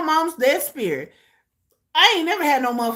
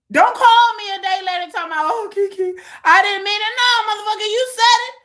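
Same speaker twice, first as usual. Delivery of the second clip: raised, higher, indignant retort; indignant telling-off; 5 semitones higher, 4 dB louder than usual. Acted. Woman rejecting a partner's take-back, indignant telling-off. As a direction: scold at a high pitch, no backing down.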